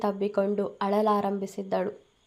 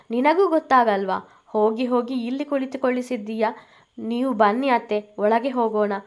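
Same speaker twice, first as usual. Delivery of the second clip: fake sugary concern; 3 semitones higher than usual. Akshara fakes concern for mother-in-law.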